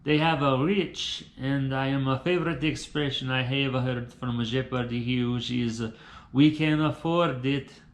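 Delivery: put-on English with a Brazilian accent. Brazilian dreamer talks about life in the USA, Brazilian accent. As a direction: lay on a laid-back Brazilian accent. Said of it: "laid back than Brazil".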